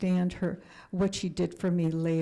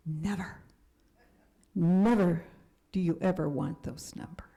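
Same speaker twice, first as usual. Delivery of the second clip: hushed warning; 2 semitones lower than usual. Retold or imitated. Survivor warning the child.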